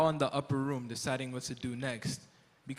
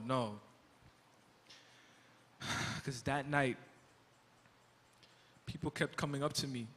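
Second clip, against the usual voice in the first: remorseful; 4 dB quieter than usual. Acted. Peter confessing to Jesus he denied him, quiet remorse. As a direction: admit it quietly, weighed down.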